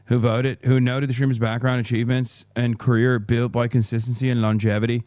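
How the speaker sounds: put-on Irish accent, reading aloud; hammed-up Irish accent. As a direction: read it out in a mock Irish brogue. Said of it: "My, my Irish accent".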